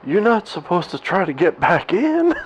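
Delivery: laughing disbelief. Retold or imitated. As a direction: imitate him barely holding back a laugh. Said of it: "he starts laughing at me".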